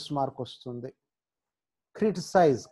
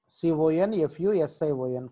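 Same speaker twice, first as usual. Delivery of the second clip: slow, letter by letter; spelling out slowly; slower than usual. Shown as a demonstration. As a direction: spell it out slowly for the class to copy. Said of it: "మీరు spelling చూస్తూ".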